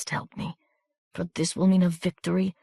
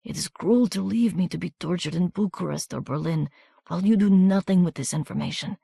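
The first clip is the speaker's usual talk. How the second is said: softer, half-whispered pleading; wounded soldier begging Miranda to carry his papers; desperate weak plea; 2 semitones higher, 3 dB quieter than usual. A narrator's reading. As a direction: beg while your strength fails.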